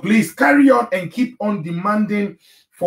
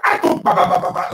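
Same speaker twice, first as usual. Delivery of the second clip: choppy ba ba talk; 4 semitones lower, faster than usual. Shown as a demonstration. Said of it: "like this when I'm".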